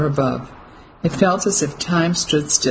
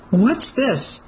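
a sharp, high gasp of a question; shocked wife; horrified surprise; 7 semitones higher than usual. A narrator's reading. Wife, seeing soldier's gun at husband's back, asks in horrified surprise. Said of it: "not having to feign horrified surprise".

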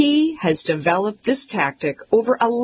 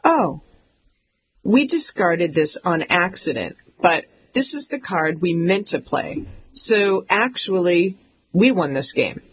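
calm and cool. Retold or imitated. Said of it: "very calmly, very coolly said".

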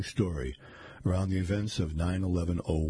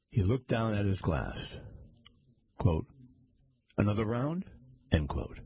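even, measured reading voice with spoken quote marks; story narration. A narrator's reading. Reader narrating a mystery story to listeners, steady storytelling. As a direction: read it like an audiobook narrator.

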